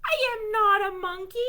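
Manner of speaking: loud, high indignant protest; indignant reader shouting back at the book; mock protest. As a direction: loudly deny being a monkey. Protesting the book's words.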